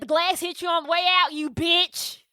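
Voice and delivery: high-pitched mock Kentucky accent; hard Kentucky accent. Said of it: "he hits the Kentucky accent so hard".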